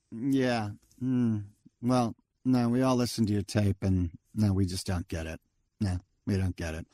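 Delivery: lightly imitated lukewarm rejection, halting; unimpressed agent. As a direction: let him down with low-key indifference. Agent's unimpressed reply to the tape.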